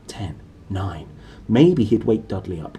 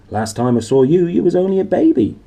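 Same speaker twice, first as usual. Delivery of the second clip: giant, fond; 8 semitones higher, 7 dB louder than usual. Acted. Giant voiced in story.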